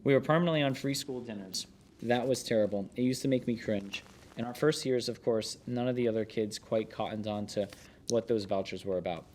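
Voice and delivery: steady, measured book narration; narrating from the page; memoir read aloud. Acted. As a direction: read the chef's memoir to listeners.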